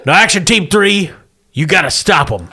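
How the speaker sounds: military officer giving a briefing; briskly brief the troops; Marine captain voice. Acted.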